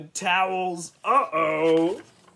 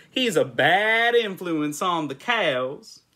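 stern farmer; 4 semitones higher, 5 dB louder, slower than usual. A narrator's reading. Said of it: "ordered Farmer Brown".

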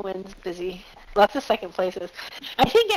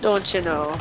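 put-on Wisconsin accent; 4 semitones lower, slower than usual. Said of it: "had that accent".

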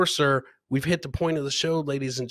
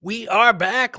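whisper; 7 semitones higher, 5 dB louder, slower than usual. Real, not acted. Host returning from the break.

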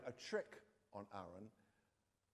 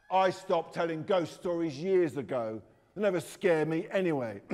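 sneery voice; 3 semitones higher, 14 dB louder than usual. A narrator's reading. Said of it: "in this really sneery voice".

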